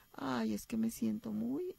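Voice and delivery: a touch of mock sugary softness; overly sweet. Shown as a demonstration. Therapist mocking an overly sweet complaint, soft and sugary. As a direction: sigh it out too sweetly. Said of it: "no significa que voy a ser muy dulce".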